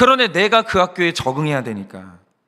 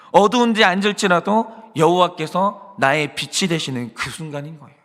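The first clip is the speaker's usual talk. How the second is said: ordinary delivery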